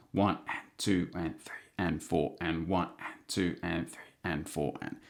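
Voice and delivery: counted softly, almost whispered; softly murmured beat count; quiet count. Shown as a demonstration. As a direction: count under your breath. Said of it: "I'm kind of whispering it".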